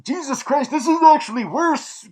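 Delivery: high-pitched, exclaiming in exasperation; exasperated outburst. Real, not acted. Reviewer reacting to a grim plot twist, exasperated. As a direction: let the realisation jump out high.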